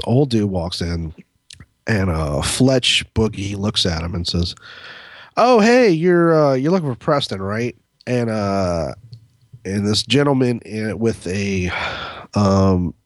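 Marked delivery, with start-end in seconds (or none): 5.4-7.7 acted-out greeting, starting high and bright; friendly greeting. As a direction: call out a casual hello, then ease off.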